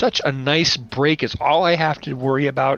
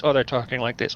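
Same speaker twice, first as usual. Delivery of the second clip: Masterpiece Theater voice; 3 semitones lower, 3 dB quieter than usual. Retold or imitated. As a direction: lower put-on drama voice. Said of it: "everyone's talking like this".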